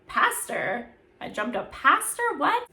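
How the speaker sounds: shocked disbelief. Retold or imitated. Kalu learns he jumped pastor.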